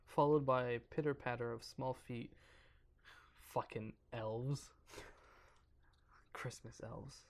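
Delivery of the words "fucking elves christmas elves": hushed aside; whispering. Real, not acted. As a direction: whisper it under your breath. Aside after reading elves.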